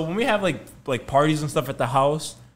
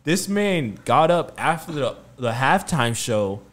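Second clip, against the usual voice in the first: louder and louder, ending in a laugh; excited retelling; 3 semitones higher, 7 dB louder than usual. Retold or imitated. Friend retelling Nazir's report, excited and laughing. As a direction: Nazir breathlessly reporting Steve left.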